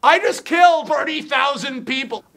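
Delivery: high, insistent acted protest; villain's exasperated confession. Villain answers Lois, acted.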